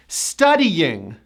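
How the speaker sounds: Studying as stu-dee-YING; three clear syllables in Studying; Studying, careful push on the Y; strong Y. Shown as a demonstration. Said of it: "with a strong Y".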